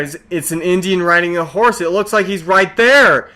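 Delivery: imitated earnest insistence. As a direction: insist on it, stretching the last words. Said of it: "'cause you sound so serious".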